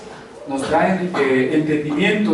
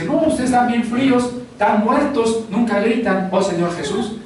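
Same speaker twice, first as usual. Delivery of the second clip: a lightly voiced churchgoer scolding, pitched up high; half-hearted mock rebuke of a cold congregation; mocking zealot; 6 semitones higher than usual. Preacher imitating a zealous member scolding others.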